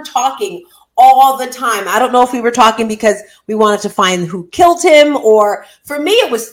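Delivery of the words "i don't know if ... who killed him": ordinary talk, nothing marked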